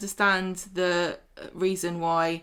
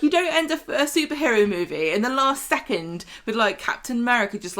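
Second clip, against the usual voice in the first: indignant, starting high then settling; mildly worked-up complaint; exasperated; 3 semitones higher than usual. Real, not acted. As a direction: argue the point in real annoyance. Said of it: "this really annoyed me".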